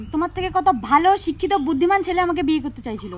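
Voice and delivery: mildly defiant repetition, stressing the comparison; pointed repeat. Acted. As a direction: say it openly, straight at the listener. এই কি বললা?.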